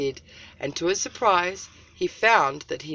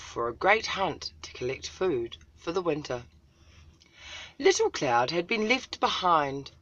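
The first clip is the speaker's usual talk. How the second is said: lively storybook reading; story narration. A narrator's reading. Storyteller reads a picture book aloud to followers. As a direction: read it like a tale for children.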